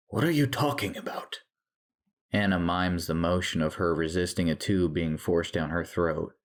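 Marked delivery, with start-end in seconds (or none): 0.1-1.4 high, baffled question; confused. A narrator's reading. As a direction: question her in bewilderment. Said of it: "looks at Anna in confusion".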